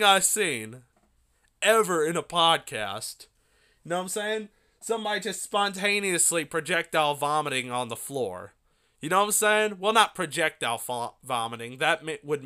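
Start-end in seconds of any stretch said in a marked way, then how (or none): none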